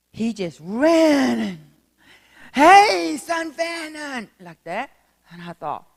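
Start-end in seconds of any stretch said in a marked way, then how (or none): 2.5-4.3 loud, high, warm greeting that slows down; hearty call. Retold or imitated. Old major running up to greet the preacher, loud and hearty. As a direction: call out happily across the room. Old man runs up calling out.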